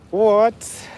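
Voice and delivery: loud, high startled what; surprised what. Real, not acted. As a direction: caught off guard by the guess. Reacting to a comment guess.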